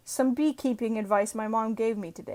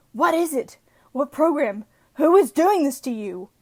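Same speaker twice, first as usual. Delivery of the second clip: raised, urgent questioning; mock alarm; 4 semitones higher, 5 dB louder than usual. Owner questioning an overloaded laptop, hammed-up alarm. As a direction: fuss over it with hammed-up urgency.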